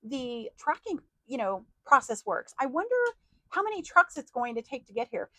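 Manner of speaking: mock worrier fussing over delivery; fretful wondering. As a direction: rattle off the worries quickly. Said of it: "You don't sit there and go".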